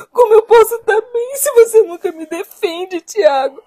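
hurt, crying complaint; tearful reproach. Acted. Wife to husband who never defends her, tearful reproach. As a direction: plead through tears at being left undefended.

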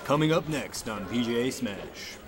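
announcer voice. Pretend. Mock broadcast promo.

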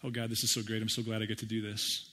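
sarcastically chipper prayer voice; a mock-cheery prayer; mock cheerful prayer. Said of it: "What did he say to God?".

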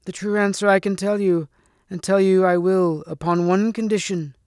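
high hag voice turned serious; cracked crone laying down terms; serious loathly lady. A narrator's reading. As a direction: stay shrill, but state it seriously. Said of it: "suddenly serious, she went on".

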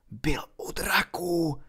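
hushed, slow breathy reveal; whispered. A narrator's reading. Ron šeptá zjištění přátelům, pomalu šeptem. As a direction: whisper the secret across the table. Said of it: "pronesl šeptem".

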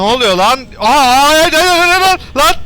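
very high, loud alarmed cries; panicked yelling. Real, not acted. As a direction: cry out as the power dies. Power runs out, panic. (elektrik bitince panik çığlığı)

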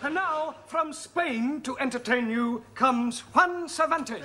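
lightly hammed-up stage introduction; mock show announcer. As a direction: introduce the act, drawing out the name at the end. Introduces Juan as an entertainer.

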